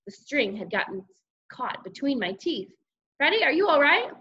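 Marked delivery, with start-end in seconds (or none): 3.2-4.1 high, louder motherly call; concerned mother. A narrator's reading. Mother asking after son through door, concerned. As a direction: check on him loudly, pitched up.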